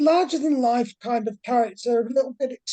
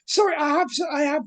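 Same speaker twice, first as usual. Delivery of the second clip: flamboyant British professor; 3 semitones higher than usual. Acted. Professor Fontaine pleads with the investigators, lightly posh and fussy. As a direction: play the flustered posh professor missing his student.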